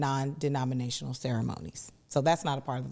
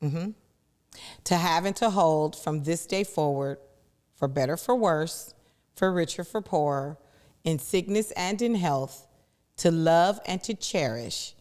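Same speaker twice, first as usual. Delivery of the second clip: formal vow reading. Acted. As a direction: read it like an officiant. Reads the full traditional vows.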